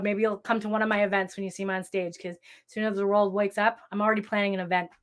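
tired voice, giving out. Real, not acted. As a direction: talk as your voice is going. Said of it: "now I'm losing my voice".

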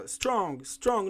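"Strong" said in one go; "Strong" all at once, no split; in one syllable. Shown as a demonstration. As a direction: say "Strong" as a single unbroken syllable. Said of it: "ela é de uma vez".

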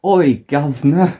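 lightly put-on stage Cockney call; mock Cockney. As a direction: ham up a fake London accent. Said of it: "Dick Van Dyke levels of English accent".

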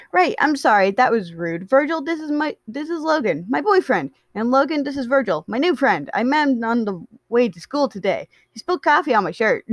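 high, eager chatterer; bubbly, excited Patton. Acted. Patton introduces boyfriend to new friend, bubbly and high.

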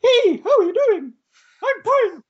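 squeaky high voice, just kicked; just hit in the groin. Pretend. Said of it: "I just punched him in the balls".

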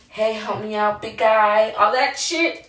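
a touch of sugary mom voice; Mary Poppins sweet. Retold or imitated. Mom sweet-talking her son about chores, lightly sugary. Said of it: "all nice and Mary Poppins".

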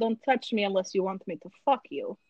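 threatening Russian accent. Shown as a demonstration. Sounding like Black Widow to threaten, Russian accent. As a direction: make it menacing with a Russian accent. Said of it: "when I make it Russian".

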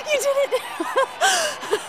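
high laughing cheer; laughing with joy. Acted. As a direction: laugh through the words with joy. Celebrating his touchdown.

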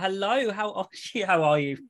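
hammed-up Aussie greeting; Australian accent. Host saying hello to the Australian guest, mock Australian accent. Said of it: "that's my Australian accent in a nutshell".

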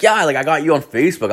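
lightly voiced girl, speeding along; girl's chatty line. Voices girl talking to him.

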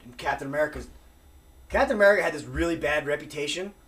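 ordinary talk

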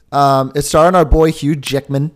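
light mock Australian accent; a hint of Aussie, showing off our boy. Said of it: "That was my Australian accent".

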